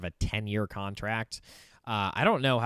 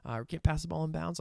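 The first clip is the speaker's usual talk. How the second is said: Brian Kelly yelling; 7 semitones higher than usual. Retold or imitated. Head coach chewing out his coordinator on third down, mock yelling. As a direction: imitate an exasperated coach in a strained high pitch. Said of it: "Brian Kelly yelling at Joe Sloan".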